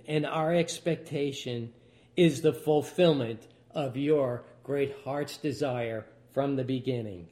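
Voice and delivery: closing prayer. Acted.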